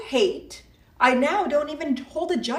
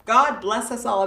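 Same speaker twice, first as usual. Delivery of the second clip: sarcastic. Acted. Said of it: "That's sarcastic, guys".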